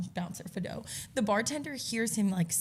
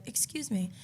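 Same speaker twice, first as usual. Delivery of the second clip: soft, gentle interjection; retold kind voice; kind and polite; 5 dB quieter than usual. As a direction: politely ask for attention, softly. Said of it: "Kind Lindsay came out".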